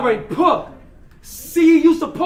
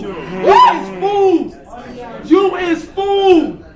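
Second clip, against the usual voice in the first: stretched, slow, louder mocking yell; drawn-out taunt; 4 semitones higher, 3 dB louder, much slower than usual. Battle rapper jeers at his opponent, slow and drawn out. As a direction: draw each word out to mock him.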